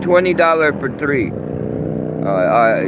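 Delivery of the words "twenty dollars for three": put-on higher kid voice quoting the price; child seller voice, lightly mocked; imitating the kid. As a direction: mimic the little candy seller, pitched up. Kid selling candy on subway.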